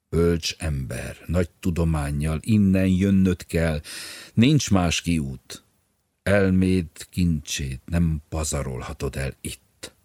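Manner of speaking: loud, slow, insistent plea; loud, slow urging of a desperate friend; urgent pleading. Acted. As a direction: plead with him forcefully, slowly. Bodor urging Bolyai to come.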